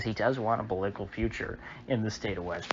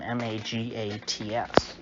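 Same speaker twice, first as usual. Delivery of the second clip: usual speaking voice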